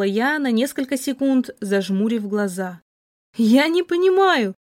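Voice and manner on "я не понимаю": high, louder, stunned disbelief; bewildered. Acted. Heroine stunned by her lover's accusation, bewildered. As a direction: voice jumps up in shock.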